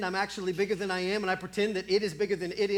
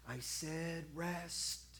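firm quiet command; 2 semitones lower, 10 dB quieter, much slower than usual. Acted. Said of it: "and he says".

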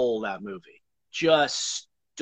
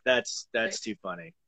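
put-on Arnold accent; 3 semitones lower, 5 dB quieter than usual. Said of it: "That accent was fun".

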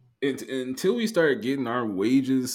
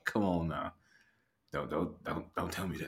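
mock pleading; 6 semitones lower, 9 dB quieter than usual. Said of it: "I was like".

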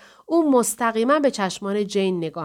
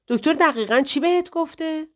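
raised pitch, a touch of anger; ring of anger; 7 semitones higher than usual. A narrator's reading. Jane questions Paula about the doctor, restrained anger. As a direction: let mild anger creep into the question.

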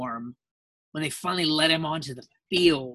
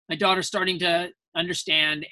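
ordinary delivery

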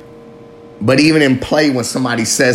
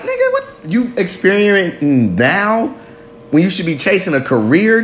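mocking judge voice; 6 semitones higher than usual. Voices people judging him.

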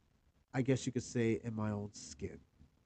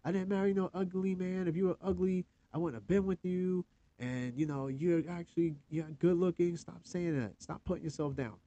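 lightly voiced wife, higher and insistent; a hint of the wife scolding him kindly; imitating wife; 4 semitones higher than usual. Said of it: "and she's like".

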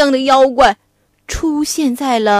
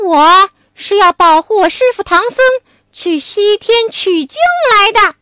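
Wukong; 5 semitones higher, 5 dB louder than usual. Acted. Wukong voice continues.

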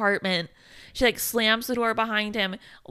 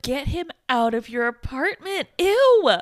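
mock disgust; 4 semitones higher than usual. Own reaction retold, ends disgusted.

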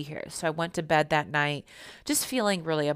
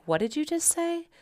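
much higher, shocked question; can't believe what she just heard; stunned disbelief; 12 semitones higher than usual. Retold or imitated. Mom hearing about the cat, high stunned disbelief.

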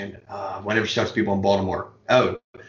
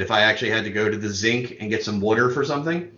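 Baltimore accent; faster than usual. Shown as a demonstration. Joking about the accent a friend scolded, light Baltimore accent. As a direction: say "Zinc" for sink in Baltimorese. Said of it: "about my Baltimore accent".

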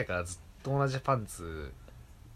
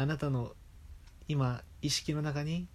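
put-on slow soft anime girl; lightly voiced ASMR girl; hypnosis voice; 4 semitones higher, 3 dB quieter than usual. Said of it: "みたい な。".

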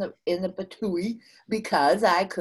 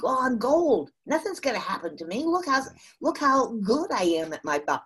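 louder, higher mock overconfidence; mock boasting; 5 semitones higher, 4 dB louder, faster than usual. Speaker mimics a salesperson on a roll, mock boasting. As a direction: imitate someone cockily pleased with themselves.

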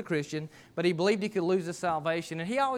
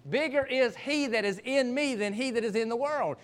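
raised, measured preaching voice; scripture proclamation; 6 semitones higher than usual. Real, not acted. Preacher quoting the words of Jesus to the congregation, scripture proclamation. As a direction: proclaim the verse with conviction.

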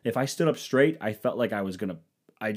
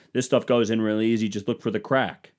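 smug YouTube guy. Retold or imitated. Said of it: "all fucking smug about it".

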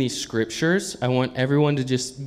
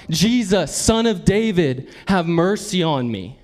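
raised-pitch persistent plea; crying out; 5 semitones higher than usual. Acted. Blind man still begging Jesus despite the crowd, crying out. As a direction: keep calling out for mercy. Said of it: "he cried out".

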